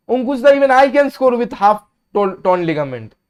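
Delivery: fed-up fan jeering; exasperated. Real, not acted. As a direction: rub it in, half laughing. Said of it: "repeated to a viewer, louder".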